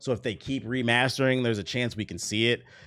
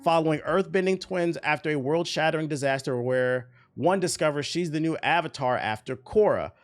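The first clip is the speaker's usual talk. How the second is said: raised, steady news-reading voice; announcement read; 6 semitones higher than usual. Real, not acted. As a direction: read out the press announcement with energy. Reads the announcement aloud.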